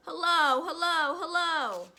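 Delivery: high, loud parrot call; loud high-pitched bird greeting. Acted. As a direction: squawk it out like a talking bird. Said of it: "came the voice again".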